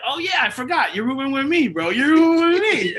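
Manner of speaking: high, loud, laughing mock Jay; laughing Jay imitation. Telling friends at a memorial how Jay announced the rooming, laughing. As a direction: announce it through laughter like a prank reveal. Jay's surprise roommate reveal.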